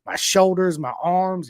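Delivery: loud, high, mock-winded complaining; out of breath. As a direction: act gassed out mid-race. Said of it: "You're like".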